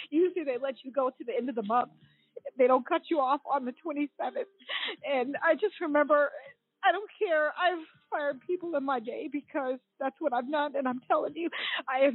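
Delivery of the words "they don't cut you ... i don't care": tearful, wavering words; real tears under the words; weeping through it; crying. Real, not acted. Still crying telling her story.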